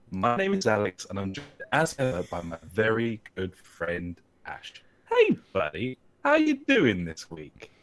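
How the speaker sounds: stiff, mechanical podcast intro voice; robot voice. Acted. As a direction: read the welcome like a robot. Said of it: "you just sound like a fucking robot".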